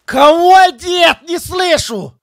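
shouted, can't hear; shouting. Real, not acted. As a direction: yell back over the noise.

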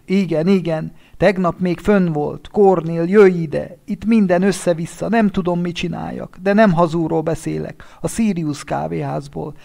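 high, loud shaken widower on the phone; panicked husband calling a friend, high and loud; distraught friend. Acted. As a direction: plead with him to come at once, high and frantic. Winter's voice on the phone.

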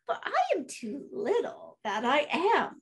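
high, pleading tiny goat; little goat begging slowly, high-pitched; little billy goat. Acted. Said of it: "said the little billy goat".

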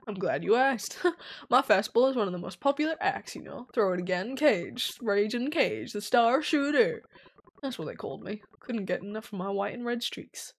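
a hint of a washed-up circus star; old musclehead pitcher. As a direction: introduce yourself as the troupe's proud pitcher.

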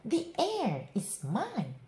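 high, slow scream. A narrator's reading. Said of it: "screamed Lydia".

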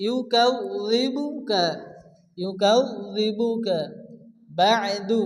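ইউকাযযিবুকা slow with a doubled z; careful recitation. Shown as a demonstration. Recitation demo of word.

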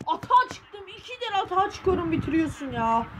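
high exasperated complaint; frustrated outburst. Real, not acted. Complaining to the game after conceding: high exasperated outburst. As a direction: vent it, voice shooting up.

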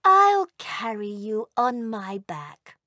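a gentle, kind mother dragon; mother dragon comforting the wingless elf, kindly. Acted. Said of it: "said kindly".

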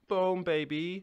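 loud, high hype shout; hyped up. Real, not acted. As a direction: fire it off like a victory call. Hyped after finishing the rant.

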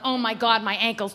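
soft low groan; weary pregnant moan. Retold or imitated. Pregnant woman complaining about her ankles, low soft moan. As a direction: moan like a tired mom-to-be. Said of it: "she's rubbing her back going".

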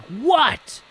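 high, loud mock yell; retold yell. Husband to the worker knocking during an argument, yelled. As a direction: yell it like someone interrupted mid-argument. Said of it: "he, like, yelled".

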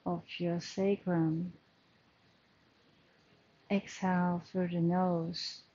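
measured meditation guidance with long pauses; guided breathing meditation. Acted. Yoga teacher settling the class into their breath, calm guided meditation. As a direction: lead the breathing calmly, leaving space between phrases.

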